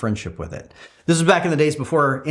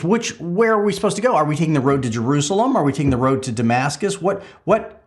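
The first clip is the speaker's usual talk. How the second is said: confused Thomas; 4 semitones higher than usual. Acted. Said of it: "and Thomas says".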